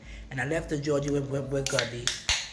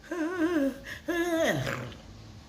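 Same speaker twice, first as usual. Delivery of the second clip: high-pitched burst of laughter; 11 semitones higher than usual. Real, not acted. Grandchild laughing at own whipping story, high laugh. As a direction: crack up at the memory.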